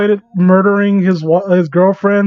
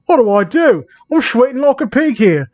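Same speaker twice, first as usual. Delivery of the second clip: higher-pitched fretting character voice; panicked girl; 6 semitones higher than usual. Acted. Amy worries as he acts up, mildly panicked. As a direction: fret it in a raised, put-on voice.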